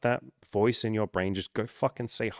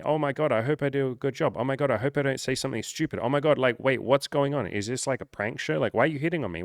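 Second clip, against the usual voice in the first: higher, rushed, panicky inner voice of a woman; a flustered shopper hit on by a stranger, higher and panicky; 4 semitones higher than usual. Retold or imitated. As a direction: babble like she's flustered and caught off guard. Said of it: "Think how she might feel".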